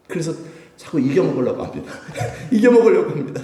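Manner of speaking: 웃음을 터뜨리며 고백하듯; 기도하다 웃음이 새어 나오는 말투. Acted. 웃으며 하는 고백 기도. (웃으면서 털어놓는 기도)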